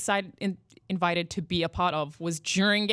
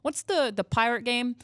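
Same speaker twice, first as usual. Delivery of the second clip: high, eager mom voice; mom's text; 6 semitones higher than usual. Retold or imitated. Daughter quotes her mom's text, eager high voice. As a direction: voice mom lightly, bright and eager. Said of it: "was like".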